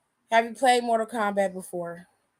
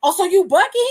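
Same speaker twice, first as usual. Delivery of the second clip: louder mock taunt; 6 semitones higher, 7 dB louder than usual.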